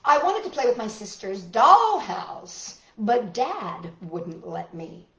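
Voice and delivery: deliberate, expressive picture-book narration; reading to children. A narrator's reading. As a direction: lean on key words for young listeners.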